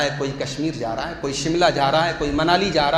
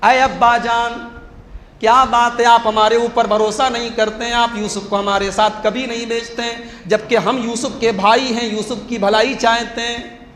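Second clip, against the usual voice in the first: higher coaxing plea, rising; wheedling sons; 4 semitones higher, 3 dB louder than usual. Retold or imitated. The scheming sons coax their father, higher and wheedling. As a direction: sweet-talk the father slyly. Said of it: "बात करने का अंदाज देखिए".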